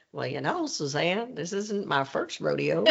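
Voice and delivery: put-on a touch of President Bush's Texas accent. President answers a reporter's tough question, light Texas accent. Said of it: "in his wonderful Texas accent".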